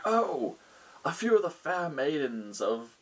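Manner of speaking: a hint of a ruler sharing grave news; concerned lord. Lord answers the party.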